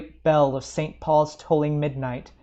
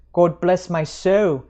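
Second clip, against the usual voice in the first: shocked cry; 3 semitones higher, 5 dB louder, slower than usual. Acted. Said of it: "he cried".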